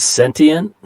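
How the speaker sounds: "sentient" said the United States way; American pronunciation. Shown as a demonstration. Showing a colleague how Americans pronounce it, "sentient" in American pronunciation. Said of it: "the way we pronounce it in the United States".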